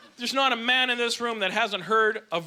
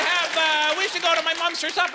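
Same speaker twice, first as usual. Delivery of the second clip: mildly mock wife, pitched higher; wife's suggestion; 6 semitones higher than usual. Comic imitating a wife talking to her husband, mild mock-wife voice. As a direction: lightly imitate a nagging partner.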